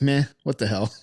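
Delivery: mildly indifferent, going along with it; a touch of acted nonchalance; verbal shrug. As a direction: shrug it off in a read-out quote. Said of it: "Carl shrugged his shoulders like".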